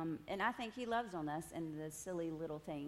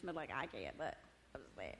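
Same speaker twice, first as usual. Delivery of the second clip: trailing off; 6 semitones lower, 6 dB quieter than usual. Real, not acted.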